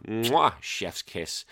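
slow, savoured mwah; drawn-out approving kiss; chef's kiss. Retold or imitated. Host reacts to a listener's comment with a slow chef's kiss. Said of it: "I go".

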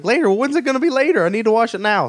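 high, insistent mock complaint; Charlie Day. Actor demanding the shirt be washed now, mock-urgent imitation. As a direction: imitate an impatient fretter. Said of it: "my impression of Charlie Day".

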